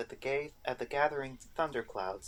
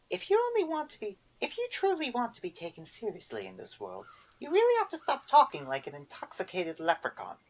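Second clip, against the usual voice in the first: Erder voice; 10 semitones higher, 4 dB louder than usual. A narrator's reading. Erder answers the boggart, high prim old witch.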